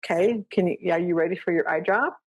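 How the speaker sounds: asking the dog Sue about eye drops; gentle pet talk. Retold or imitated. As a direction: sweetly ask the dog. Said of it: "I said".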